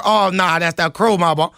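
playful put-on Can Crow Cajun voice; Can Crow accent. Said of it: "I can hear somebody from Can Crow".

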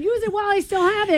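mock sexy rasp. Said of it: "You said".

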